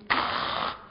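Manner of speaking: breathy, voiceless gasp of fright; mock frightened cry. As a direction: let out a hushed mock cry. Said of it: "I'd cry out loud".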